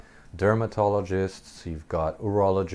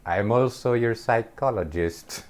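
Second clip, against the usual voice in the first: higher-pitched mock witch; weird witch voice; 4 semitones higher than usual. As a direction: lightly imitate an odd witch. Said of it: "with this weird witch voice".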